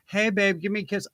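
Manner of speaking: lightly acted sweetheart asking for a kiss; date impersonation. Host playing a date asking for a kiss, playful. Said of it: "my impersonation of a date gone wrong".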